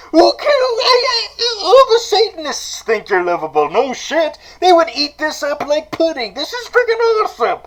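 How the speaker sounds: high, squealing, laughing excitement; gushing fanboy. Acted. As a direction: shriek your adoration at your idol. Fanboy gushes to his idol.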